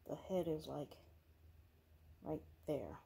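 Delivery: hushed whisper, keeping the house asleep. Real, not acted. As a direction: whisper so you don't wake anyone. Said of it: "I know I'm whispering".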